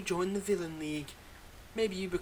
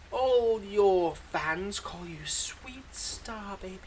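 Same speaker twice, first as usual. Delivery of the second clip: slow teasing; much slower than usual. Acted. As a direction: draw out the nickname very slowly, mocking. Villain teases hero's nickname.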